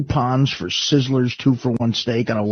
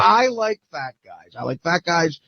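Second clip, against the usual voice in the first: high mock girl voice; stoned stripper; 5 semitones higher than usual. Drugged girl repeating her coached line on air, in a high voice. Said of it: "And she goes".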